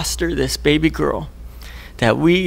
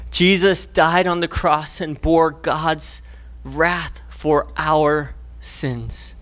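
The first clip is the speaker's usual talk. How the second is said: solemn slow preaching; slower than usual. Real, not acted. Solemn climax of sermon.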